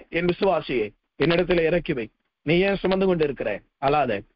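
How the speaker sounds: preacher lightly voicing God, tender and low; the Lord speaking. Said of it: "என்று ஆண்டவர் சொன்னார்".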